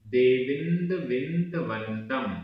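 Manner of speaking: Prakrit verse read out slowly, word by word; teacher sounding out a Prakrit verse; slow syllable drill. Shown as a demonstration. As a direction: drill the verse one word at a time for students to repeat. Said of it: "उच्चारण।".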